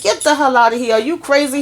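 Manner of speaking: high, offended disbelief; mock outraged friend; incredulous outburst. Retold friend rejecting the offer.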